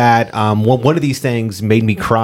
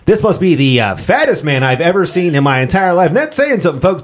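put-on old-timey announcer; 5 semitones higher than usual. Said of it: "Brock March is like".

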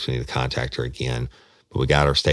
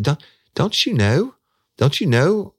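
shocked, much higher and louder; freaked out; 6 dB louder than usual. Retold or imitated. Woman at Walmart startled to see him, shocked high cry. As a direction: blurt it out in alarm. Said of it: "it freaked me the fuck out".

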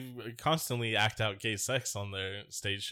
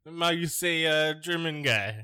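slow, higher hammed-up German accent; mock German accent; 5 semitones higher, 3 dB louder than usual. Friends riffing on Putin undercover, slow hammed-up German accent. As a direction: joke German accent, how you say. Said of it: "He had to do a German accent".

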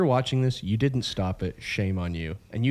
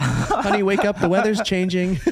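mock wife; 8 semitones higher, slower than usual. Echoes the mocked wife.

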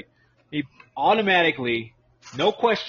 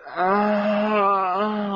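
long, higher drawn-out "ahh"; imitated "ah"; 4 semitones higher than usual. Host mimicking Rick on the video, drawn-out ahh. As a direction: hold a mock open-mouthed ahh. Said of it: "he was like".

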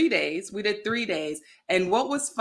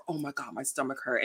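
mock pained groan; 6 semitones lower, 9 dB quieter than usual. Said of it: "I said to her".

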